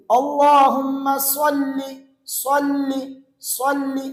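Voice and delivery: صلی said with a heavy emphatic saad, repeated; correct saad. Shown as a demonstration. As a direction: drill صلی slowly with a full saad. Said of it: "یہ صلی نہیں ہے بلکہ صلی".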